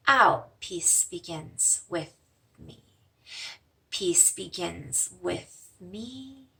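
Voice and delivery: calm meditation voice; guided meditation. Acted. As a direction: guide them gently through the mantra. Leads a breathing meditation.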